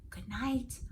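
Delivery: whispering. Acted. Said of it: "I whispered to Tata".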